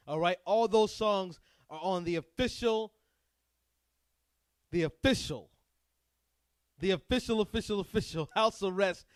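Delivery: stuck repeating words in a brain freeze. Real, not acted. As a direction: blank out and stumble over the word. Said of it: "I got a brain freeze there".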